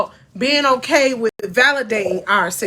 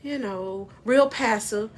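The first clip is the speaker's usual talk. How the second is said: meek, passive and fading quieter; little mouse; 3 semitones lower, 7 dB quieter than usual. Shown as a demonstration. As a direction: trail off into a small, soft voice. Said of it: "can't talk like a little mouse".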